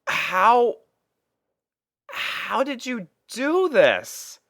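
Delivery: can't believe what she just saw; stunned disbelief. Acted.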